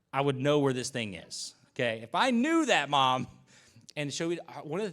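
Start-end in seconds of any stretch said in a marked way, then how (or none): 0.1-3.3 put-on exasperated kid. Arguing with mom as a kid.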